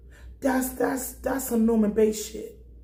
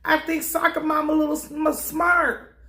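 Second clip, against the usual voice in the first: suspicious realization; 5 semitones higher than usual. Retold or imitated. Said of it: "I'm like".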